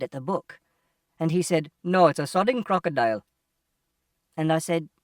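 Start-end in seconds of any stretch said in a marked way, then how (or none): 1.8-3.2 exasperated sarcastic retort; sarcastic shopkeeper. Acted. Shopkeeper answering an obvious question, sarcastic.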